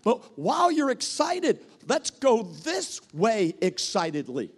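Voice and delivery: put-on steer an overeager kid gently; calming an excited one. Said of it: "that says".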